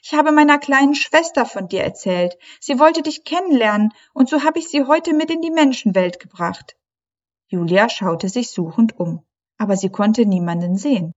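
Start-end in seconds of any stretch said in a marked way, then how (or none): 0.0-6.8 hohe, verzweifelte Mädchenstimme; aufgelöste Meerjungfrau. A narrator's reading. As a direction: junge Meerjungfrau, den Tränen nahe, sprich hoch. Leilani's high mermaid voice. (hohe Stimme einer verzweifelten jungen Meerjungfrau)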